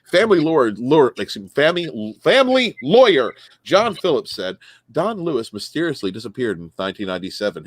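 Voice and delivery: reading a news story aloud with punched key words. Acted. Host reading a missing-husband news story to co-hosts, newsreader delivery. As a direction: read the article out like a casual newscaster.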